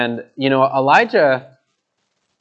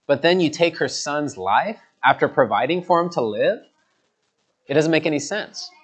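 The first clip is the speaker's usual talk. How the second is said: genuine pleading; 3 semitones higher than usual. Acted. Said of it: "in a way of genuine just pleading".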